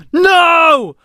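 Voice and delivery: high, loud defiant roar; bellowed answer. A narrator's reading. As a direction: roar back the refusal. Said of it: "Alam bellowed".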